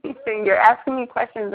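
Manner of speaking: high, loud, protesting disbelief; indignant. Real, not acted. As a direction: push back, offended and incredulous.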